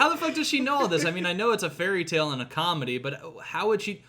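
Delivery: confused disbelief. Retold or imitated. Retelling own confusion.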